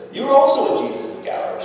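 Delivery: put-on high, quick accusing girl voice; lightly voiced girl pointing the finger; accusing servant girl. Servant girl calling Peter out, high and quick.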